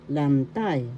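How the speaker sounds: "lantay" with the accent on TAY, pitch falling at the end; stress on second syllable. Shown as a demonstration. Teacher showing learners where the accent falls, stress on "tay" in "lantay". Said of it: "The second syllable has the accent".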